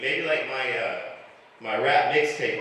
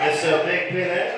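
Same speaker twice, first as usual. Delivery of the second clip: imitated French-accented neighbor, pitched up; mock French accent, a higher voice; 4 semitones higher, 4 dB louder than usual. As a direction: call out as the older French lady. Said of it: "it's weird with her French accent".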